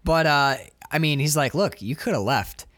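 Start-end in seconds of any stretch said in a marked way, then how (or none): 1.5-2.7 low, controlled mock gangster threat; mobster impression. Gill Man as mobster to trapped crew, low menace. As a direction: play the mob boss, sinking lower as you go. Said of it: "reminds me a little bit of the moment when in Goodfellas".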